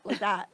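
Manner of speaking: warbling tape noise. Retold or imitated. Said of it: "It's like".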